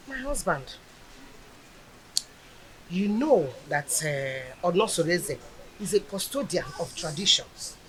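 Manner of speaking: soft, hushed reasoning; gentle reassurance. Acted. A wife soothes her worried husband about tradition, gentle reassurance.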